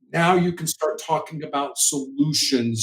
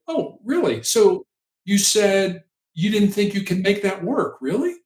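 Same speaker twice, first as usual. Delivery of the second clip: curious voice; 3 semitones higher than usual. Shown as a demonstration. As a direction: gently echo it back, intrigued. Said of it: "in a curious voice".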